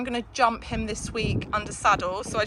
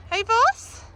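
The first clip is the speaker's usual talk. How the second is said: calling out; 12 semitones higher, 5 dB louder than usual. Real, not acted. Calling the horse.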